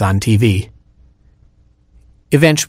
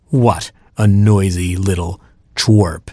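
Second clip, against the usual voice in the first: gloating cat; 2 semitones lower, slower than usual. Acted. Cat leaves after eating Robin, slow smug gloat. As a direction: savor it slowly, lightly voiced cat.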